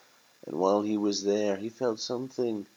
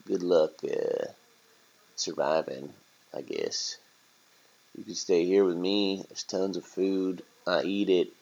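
lightly voiced casual, sympathetic rat; a hint of streetwise slacker, halting; laid-back rat. Rat offering turkey a place to stay, easygoing.

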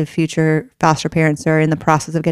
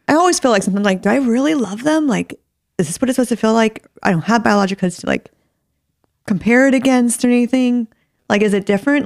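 teary voice; 5 semitones higher than usual. Real, not acted. Host tearful asking about love.

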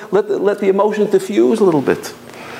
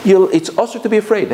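ordinary talk, nothing marked

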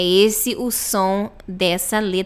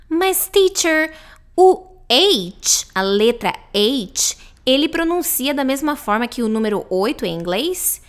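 higher-pitched student piping up with a doubt; questioning student; 4 semitones higher than usual. Acted. Student asking teacher about H and eight, puzzled. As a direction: put on a puzzled learner's higher voice.

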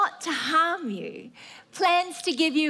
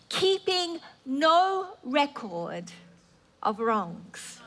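ordinary talk, nothing marked

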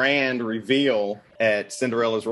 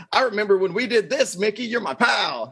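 imitating father-in-law; 8 semitones higher than usual. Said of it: "So he's like".

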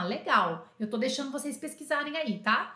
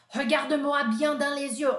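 mock stern supervisor; 3 semitones higher, 4 dB louder than usual. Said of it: "Aí o Bouillon falou assim".

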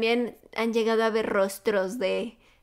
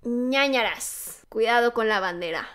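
slow sign-off. Acted. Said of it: "pues yo les voy a decir".

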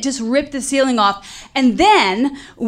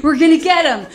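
put-on excited kids; 5 semitones higher than usual. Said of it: "eight little kids running around like".

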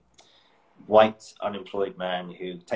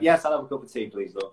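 chatty panel member; 3 semitones higher than usual. Retold or imitated. Imagined audition panellist offered tea, chatty impression. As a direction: play her gabbing over tea. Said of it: "see you on the audition panel".

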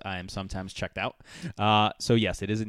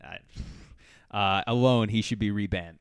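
slow hammy fake Italian accent; mock-Italian rant, slow and loud; 5 dB louder, slower than usual. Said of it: "My, my fake Italian's not that great".

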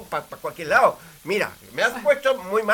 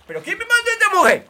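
laughing exasperation; 11 semitones higher, 6 dB louder than usual. Acted. Chef exasperated by the clumsy assistant.

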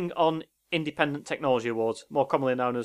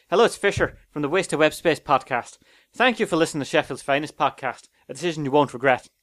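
northern Irish accent. Shown as a demonstration. Podcaster redoing the sign-off for his co-host, northern Irish accent. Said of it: "go for a more northern Irish accent".

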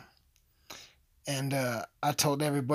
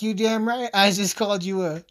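mock president shout; 6 semitones higher, 7 dB louder than usual. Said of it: "And he's like".

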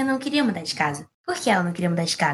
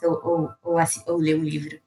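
whisper; 5 semitones lower than usual. Real, not acted. Aside trailing off.

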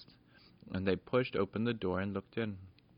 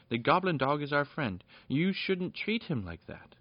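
indignant protest; 6 semitones higher than usual. A narrator's reading. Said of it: "shouted Peter".

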